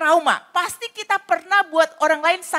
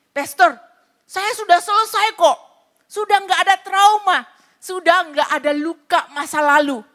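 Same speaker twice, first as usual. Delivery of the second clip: dismissive churchgoer; 3 semitones higher than usual. Retold or imitated. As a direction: play it off as if all is fine. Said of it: "Ada orang-orang yang berkata".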